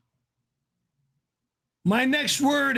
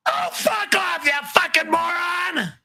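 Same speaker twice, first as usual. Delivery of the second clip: swearing tirade; 5 semitones higher than usual. Real, not acted. Raging at super chat.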